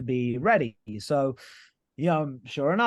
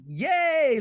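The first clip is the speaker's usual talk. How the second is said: high squeaky mock yay; a hammed-up little cheer of victory; cheering himself, half ironic; 11 semitones higher, 3 dB louder than usual. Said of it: "I was like".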